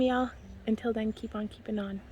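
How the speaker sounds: normal talking voice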